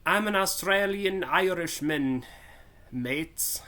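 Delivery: a hammed-up mix of Irish and Australian accents. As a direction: blend Irish and Australian accents badly, playfully. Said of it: "a crossbreed of Irish and Australian".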